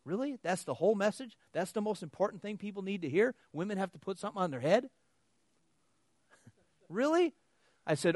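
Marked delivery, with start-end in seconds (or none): 0.0-4.9 higher, indignant questions; mad disbelief. Real, not acted. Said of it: "And I hear that, and I get mad". 6.9-7.4 very high rising squeak; mock shock; incredulous really. Real, not acted. Mocking disbelief after laugh.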